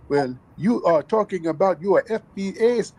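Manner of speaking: mocking voice. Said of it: "The tethers love running up to us talking about".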